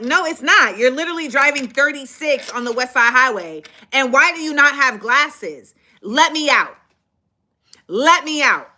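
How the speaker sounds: retold argument. Arguing with the driver.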